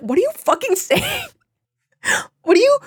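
very high, laugh-choked mock outrage; laughing disbelief. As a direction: squeal it through laughter, retelling your bafflement. Retold disbelief at her slang, laughing.

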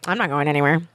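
low, unbothered, matter-of-fact; indifferent low delivery. Retold or imitated. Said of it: "she said it like that".

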